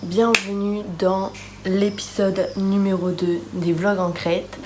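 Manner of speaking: groggy vocal fry; raspy just-woke-up vocal fry; morning voice. Real, not acted. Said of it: "j'ai ma voix du matin". (voix du matin éraillée)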